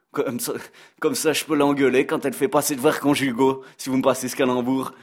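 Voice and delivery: put-on a light, joking Belgian accent; mocking chronicle in a Belgian accent; Brad Pitt's Belgian accent. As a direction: play a Belgian columnist teasing his hosts in his Belgian accent. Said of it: "comme vous pouvez l'entendre à mon accent".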